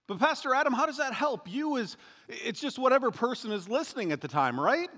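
lightly voiced skeptical churchgoer; questioning listener. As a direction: play the doubtful congregant asking back. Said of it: "imagined listener objection".

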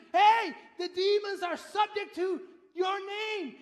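loud, slow, jubilant shout; excited shout. Retold or imitated. Disciples shouting their joy back to Jesus, excited shout. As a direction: shout it out like returning disciples overjoyed.

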